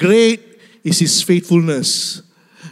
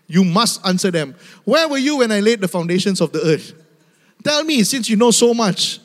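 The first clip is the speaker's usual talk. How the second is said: God's stern voice; 2 semitones higher than usual. Acted. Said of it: "This is God speaking to Job".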